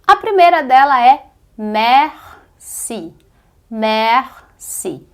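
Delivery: merci, r almost silent, falling; French merci demo. Shown as a demonstration. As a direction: model the word merci carefully. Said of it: "Só pronúncia que você conhece". (merci pronunciado com cuidado)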